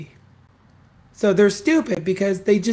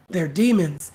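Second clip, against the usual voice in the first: mock preacher; 3 semitones lower than usual. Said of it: "walking around saying".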